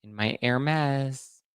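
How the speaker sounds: lightly voiced posing reality star; mock ditzy celebrity. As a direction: drawl the ending like a star showing off her bag. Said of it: "she was like".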